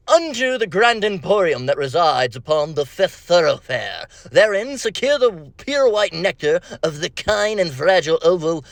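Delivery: hammed-up Victorian proclamation, mildly voiced; mock grand old-English orator; overly dramatic Victorian. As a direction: declaim it like a theatrical Victorian gentleman. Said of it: "Overly dramatic Victorian, uh, version".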